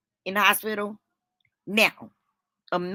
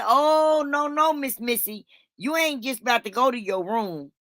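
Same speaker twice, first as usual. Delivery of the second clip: indignant telling-off, pitched up; sassy scolding; 6 semitones higher than usual. Retold or imitated. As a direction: stop her in her tracks, mock-stern. Scolding her mother, retold.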